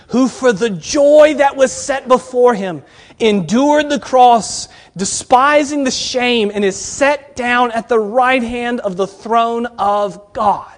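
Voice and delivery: slow, measured reading of the verse; scripture reading. Acted. Preacher reading the verse to the students, slow and measured. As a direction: let each phrase of scripture land slowly.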